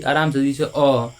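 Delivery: slow, easy, अ said calmly; slow gentle demo. Shown as a demonstration. Teacher to students, calmly showing the short अ. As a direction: take अ slowly and easily. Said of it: "जो कम sound लगेगा".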